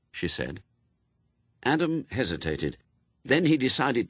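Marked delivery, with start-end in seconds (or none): none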